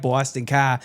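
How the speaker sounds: mock Boston accent, R dropped from "car"; hyperbolized Boston vowels; exaggerated Boston accent. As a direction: imitate people overdoing Boston. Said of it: "hyperbolize and they're like".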